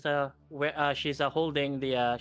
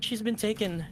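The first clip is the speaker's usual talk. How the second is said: high, halting, distraught mother's voice; the distressed mother explains her daughter was taken, high and broken; grieving mother; 8 semitones higher than usual. Acted. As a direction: stammer out her loss to the strangers.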